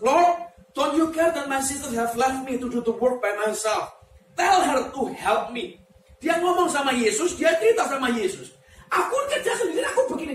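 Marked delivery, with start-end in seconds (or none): 0.0-5.8 slow, louder pleading complaint; Martha complaining. Acted. Martha pleading with Jesus, slow and loud. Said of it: "She came to him and asked". 8.9-10.3 mock whining complaint. Voicing Martha's complaint.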